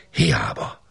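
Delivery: whispered echo. A narrator's reading. Narrator echoing the failed search in a hushed whisper. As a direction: let the word fade into a hushed whisper.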